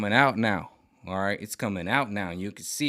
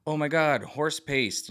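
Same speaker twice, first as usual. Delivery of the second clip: higher, mock-hysterical gasp; mock outrage; 6 semitones higher, slower than usual. Mocking the medical industry, higher hysterical mock outrage. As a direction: parody a pearl-clutching establishment. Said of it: "the medical industry is literally like".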